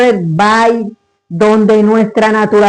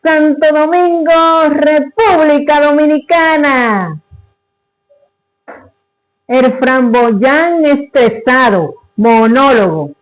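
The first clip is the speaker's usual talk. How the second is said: raised, emphatic presenter voice; stage announcement; 4 semitones higher than usual. Acted. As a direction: announce the performer and the piece proudly to an audience. Announces herself and the piece.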